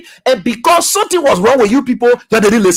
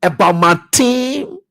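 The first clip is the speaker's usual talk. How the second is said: mocking arrogant quote; slower than usual. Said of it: "He is now saying this".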